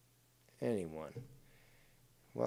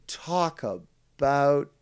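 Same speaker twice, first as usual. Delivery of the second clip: sarcastic whisper; 3 semitones higher, 4 dB louder, much slower than usual. Real, not acted. Sarcastic jab at the opponent.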